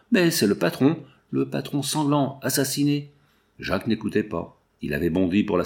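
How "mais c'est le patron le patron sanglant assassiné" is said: higher, shaken stammer at the corpse; terrified stammer. A narrator's reading. Cashier finds the murdered boss, stammering in terror. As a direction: recoil in horror as you stammer. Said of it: "recula terrifié en balbutiant".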